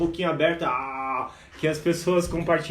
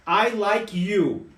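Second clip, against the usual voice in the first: slow teaching demo; much slower than usual. Shown as a demonstration. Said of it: "Eu gosto de vocês".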